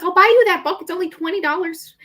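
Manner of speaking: imitating mom. Mom offers to buy a book.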